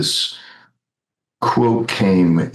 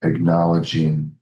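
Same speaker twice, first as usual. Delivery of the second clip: calm, unhurried meditation lead with long pauses; guided meditation. Real, not acted. Practitioner guiding the group into silent contemplation, calm and spacious.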